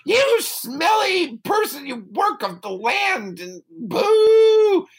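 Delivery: high, loud shouted jeer; mock insult. Harp shouting insults at smelly Jack. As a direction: jeer at him loudly from up high.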